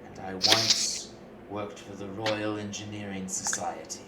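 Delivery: measured, deliberate pitch to hired hands; lightly voiced formal client, with pauses; in-character quest patron. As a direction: speak as Arthur making a careful proposal.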